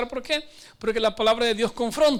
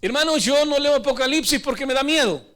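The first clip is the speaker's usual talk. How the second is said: mock fearful excuse; 4 semitones higher, 4 dB louder than usual. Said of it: "Otros dicen así".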